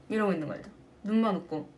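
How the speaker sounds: usual speaking voice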